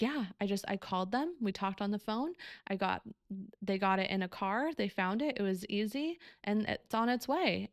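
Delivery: lightly imitated self-satisfied report; a touch of breezy pride; proud, elated. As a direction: imitate someone casually proud of sorting it out. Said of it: "he was just so proud of himself".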